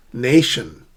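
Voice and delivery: "Nation" stressed on NA, long vowel; careful front-stressed "Nation"; word-form model. Shown as a demonstration. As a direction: say "Nation" alone with NA strong. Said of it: "How do we sh-, shift stress?".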